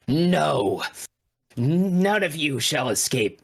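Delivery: slow guttural monster cry; banished monster's guttural threat; deep guttural monster. Acted. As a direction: draw it out deep in the throat. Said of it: "in its deep, guttural voice".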